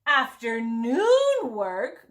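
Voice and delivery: slow, drawn-out groan. Acted. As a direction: groan it out in dismay. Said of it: "groaned the princesses".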